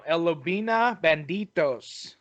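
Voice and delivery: slow, Spanish-pronounced name in a Mexican accent. Shown as a demonstration. Host reading out a top team's name, in a Mexican accent. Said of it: "say that with my Mexican accent".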